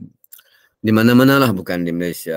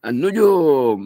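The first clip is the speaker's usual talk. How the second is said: put-on higher, light child's reply; child answering; 7 semitones higher, 4 dB louder, much slower than usual. Child repeating the answer to his father, higher voice. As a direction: chirp the answer like a kid. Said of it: "Dia jawab apa tu?".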